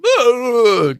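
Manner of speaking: high loud yelp; loud anime yell. Shown as a demonstration. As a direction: blurt out a manic shout. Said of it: "like, the loud".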